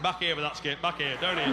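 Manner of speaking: workman calling out. Retold or imitated. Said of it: "hard hat's giving it".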